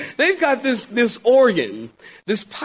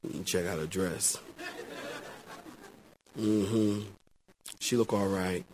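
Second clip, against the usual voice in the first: low, soft, grudging approval; appraising ladies; 11 semitones lower, 14 dB quieter than usual. Retold or imitated. Ladies sizing up the bride's dress, low grudging murmur. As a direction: murmur a sly verdict on her. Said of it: "the ladies are like".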